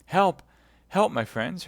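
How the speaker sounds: high, loud call for help; alarmed cry. Acted. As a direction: shout across the room. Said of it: "cried D'Artagnan".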